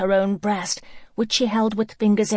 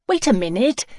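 raised voice calling out; 5 semitones higher, 5 dB louder than usual. Acted. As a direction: call after her loudly. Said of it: "she called".

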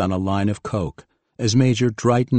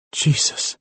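shocked gasp. Acted. Sees girl stabbed in front.

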